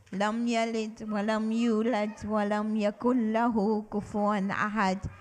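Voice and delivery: quick rhythmic Quran recitation; recitation with the class. Shown as a demonstration. Teacher leading children through Suratul Ikhlas, recited. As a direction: recite it briskly for the class to follow. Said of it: "Can you recite it with me?".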